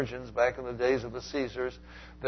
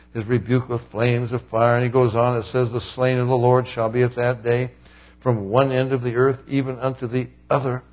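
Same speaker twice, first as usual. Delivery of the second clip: solemn scripture reading; 5 dB louder than usual. Acted. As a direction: read God's wrath gravely. Reads God's judgment verses.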